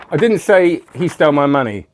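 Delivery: DIDN'T punched loud and falling; stress on DIDN'T. Shown as a demonstration. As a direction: hit the word didn't hard. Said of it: "If you emphasize, each word of that".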